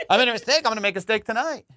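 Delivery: mock a cop confessing to mistakes; soothing cop impression. Cop keeping a driver from getting worked up, mock-soothing. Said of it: "they talk like this".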